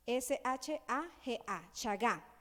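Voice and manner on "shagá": shagá with stress on the last A; pronunciation. Shown as a demonstration. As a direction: lightly say shagá, ending stressed. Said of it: "acento en la última A".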